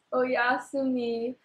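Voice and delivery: Oyasumi said slowly, each syllable o-ya-su-mi drawn out; slow careful Oyasumi, like a goodnight; Japanese good night. Shown as a demonstration. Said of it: "which means good night".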